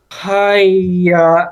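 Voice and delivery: put-on loud, exasperated east asian accent haiyaa; Uncle Roger haiyaa. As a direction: sigh it out like a fed-up uncle. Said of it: "take a moment and go".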